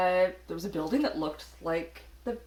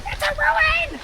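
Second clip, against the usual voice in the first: half-voiced yell, held back; stage whisper; 11 dB louder, slower than usual. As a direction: call it out but hold back. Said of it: "Don't whisper yell".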